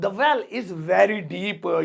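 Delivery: drawn out word by word; very slow model sentence. Shown as a demonstration. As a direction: dictate it slowly for learners. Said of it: "slow repeated model sentence".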